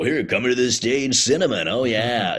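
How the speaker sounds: lightly voiced club announcer; a hint of strip-club DJ patter; stripper DJ announcer. DJ introducing a dancer to the stage, lightly voiced announcer. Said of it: "you need a stripper D J, like, you know, announcer guy".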